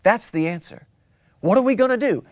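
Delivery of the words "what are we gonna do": higher, anxious asking; worried question. Pretend. Preacher voicing a worried church member, higher and anxious. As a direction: fret like a worried believer.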